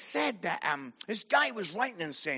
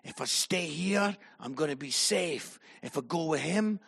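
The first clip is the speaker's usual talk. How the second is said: low, softer thinking to oneself; retold inner debate; 5 semitones lower, 5 dB quieter than usual. Sitting there thinking what to do, low musing. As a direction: weigh it up privately, voice dropped.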